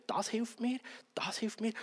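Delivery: whispered delight; soft whispered thanks. Acted. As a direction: breathe it like a grateful secret. Acted grateful spouse, whispered.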